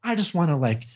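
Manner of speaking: light Southern drawl, drawn out at the end; slightly slow mock Southern voice; Southern accent. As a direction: imitate her with a hint of Southern accent. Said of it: "talking in a Southern voice".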